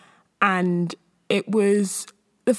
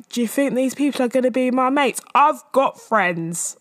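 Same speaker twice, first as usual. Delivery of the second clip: mock Gemma Collins; 5 semitones higher than usual. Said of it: "I felt like that, except being like".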